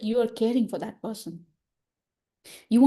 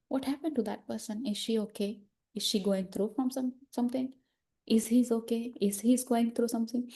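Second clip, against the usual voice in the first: softer, caring questions; concerned wondering; 5 dB quieter than usual. Acted. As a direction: ask quietly, as if checking on someone. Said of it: "just say".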